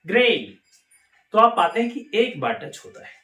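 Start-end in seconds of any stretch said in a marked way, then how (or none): 0.1-0.6 ग्रे said with no t, one tap of the tongue; clear demo word. Shown as a demonstration. Teacher demonstrates ग्रे for the learners, clear. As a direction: model ग्रे, dropping the silent t. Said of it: "तो बोले एक बार ग्रे".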